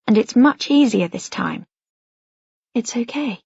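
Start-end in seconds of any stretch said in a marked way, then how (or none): 2.7-3.4 inner soothing voice. A narrator's reading. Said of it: "over and over again inside my head".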